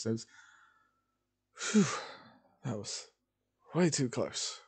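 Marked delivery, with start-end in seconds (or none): 1.5-4.6 mildly sarcastic. A narrator's reading. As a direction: play the relief with a touch of sarcasm. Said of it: "Deku just sort of sarcastically".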